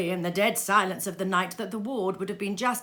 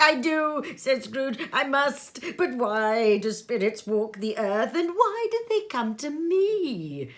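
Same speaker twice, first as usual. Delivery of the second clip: high, loud anxious pleading; frightened Scrooge; 7 semitones higher, 7 dB louder than usual. Acted. Scrooge asking the ghost why, high and frightened. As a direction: ask in rising fear.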